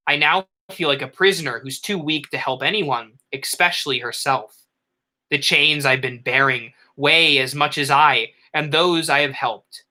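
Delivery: measured, deliberate storytelling with pauses; story narration. A narrator's reading. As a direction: read it as a solemn first-person confession. Reads submitted story aloud.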